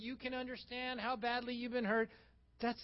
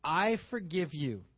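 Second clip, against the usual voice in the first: sincere; 3 semitones lower, 4 dB louder, slower than usual. Shown as a demonstration. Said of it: "With meaning and sincerity".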